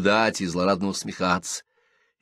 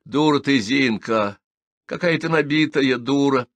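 louder angry scolding; 6 semitones higher, 4 dB louder than usual. A narrator's reading. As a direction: berate her friend. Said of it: "громкий и сердитый голос Наденьки".

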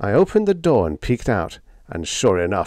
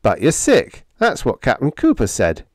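petulant; 5 semitones higher, 4 dB louder than usual. Acted. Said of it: "Enderby said petulantly".

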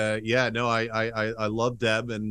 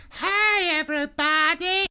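high, loud, hammed-up Eastern European greeting; Sophie's Eastern European accent; 6 dB louder, slower than usual. Imitating a sitcom character's broad accent, high Eastern European shriek. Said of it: "the accent started out with some specificity".

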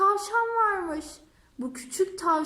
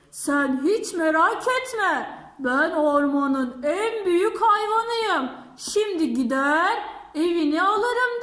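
boastful elephant; 4 dB louder than usual. Acted.

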